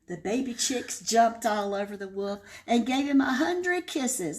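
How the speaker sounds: lively read-aloud storytelling voice; story narration. A narrator's reading. Librarian reading to kids, expressive storytelling.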